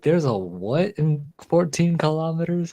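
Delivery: high-pitched incredulous Aussie; Australian accent. Retold or imitated. Host quoting a kangaroo video to a friend, in a high Australian accent. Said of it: "have you seen that video where it's like".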